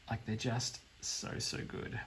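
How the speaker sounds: breathy whisper of delight; whispered so good; hushed awe. Real, not acted. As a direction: let it fade to a whisper.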